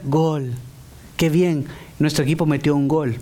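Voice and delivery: goal celebration without any shouting; mock unexcited cheer. Preacher parodies fans celebrating a goal, mock unexcited cheer. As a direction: cheer in an ordinary, subdued speaking voice. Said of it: "no vamos a gritar".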